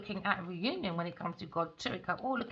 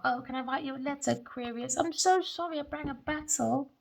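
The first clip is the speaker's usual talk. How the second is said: a lightly voiced pleading man, rushed at first; apologetic letter voice; 5 semitones higher than usual. Reader voicing the man writing to Aquarius, lightly voiced and apologetic. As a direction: beg forgiveness in a put-on sorry voice. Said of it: "He's thinking about his counterpart".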